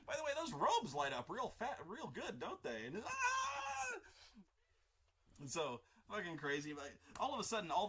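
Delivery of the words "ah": high-pitched burning scream; horrible shriek. Retold or imitated. Burning Sith Lord fleeing to the temple, high shriek. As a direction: shriek like you are on fire. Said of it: "horrible high-pitched shrieking".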